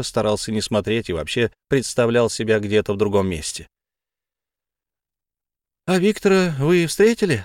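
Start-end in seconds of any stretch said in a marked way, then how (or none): 5.9-7.4 Tamara voice. A narrator's reading. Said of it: "спросила Тамара".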